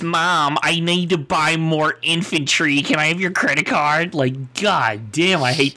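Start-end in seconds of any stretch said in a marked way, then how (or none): 0.0-4.2 lightly voiced whiny nasal gamer kid. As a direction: beg mom for her credit card, lightly whiny. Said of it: "his weaselly fucking nasally voice".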